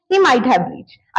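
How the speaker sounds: slow and even; slow model sentence. Shown as a demonstration. Teacher modelling the might-have guess slowly. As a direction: say it slowly, word by word. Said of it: "क्या पता पहुंच गया हो".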